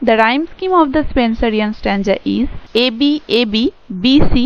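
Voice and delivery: reading notes aloud very slowly, word by word; slow, careful read-aloud of lecture notes; slow dictation reading. Shown as a demonstration. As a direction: dictate it slowly so students can write it down. Teacher reads English notes aloud.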